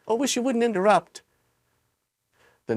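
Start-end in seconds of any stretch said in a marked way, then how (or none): 0.1-1.2 put-on angry boy. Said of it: "he said angrily".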